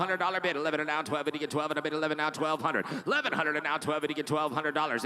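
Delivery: fast rhythmic auction chant; auctioneer. Real, not acted. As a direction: rattle off the bids like an auctioneer. Auction bid calling.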